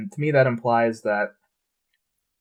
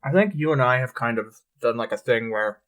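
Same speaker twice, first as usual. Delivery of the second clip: mouth full. Real, not acted. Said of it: "I'm chewing".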